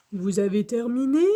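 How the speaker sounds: calling out a question; Monsieur Fossile qui appelle. A narrator's reading. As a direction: call to pupils out of view. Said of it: "appelle Monsieur Fossile". (appel interrogatif)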